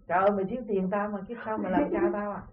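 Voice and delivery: a lightly voiced master, mildly outraged; a rich master mildly aghast at the servant; incredulous master. Rich master to his debtor servant, mildly incredulous.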